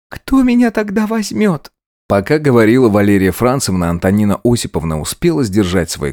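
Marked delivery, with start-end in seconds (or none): 0.1-1.7 much higher, slow anxious question; a girl doubting her future; timid maid. Acted. Maid's worried reply.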